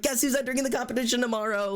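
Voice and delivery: high, rapid excited boast; giddy, rushed and high-pitched. Retold or imitated. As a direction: burst out with thrilled news for a friend. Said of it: "Like, so excited".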